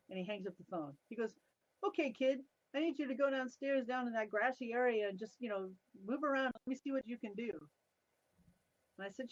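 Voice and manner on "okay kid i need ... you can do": higher, brisk boss voice; imitating the boss. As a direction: order the kid around, half amused. Boss giving her a test.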